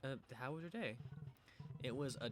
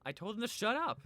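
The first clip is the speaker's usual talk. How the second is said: much higher and louder; indignant outburst; 11 semitones higher, 8 dB louder than usual. Acted. Lizzie telling about her class, loud and indignant. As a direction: fling it out defiantly.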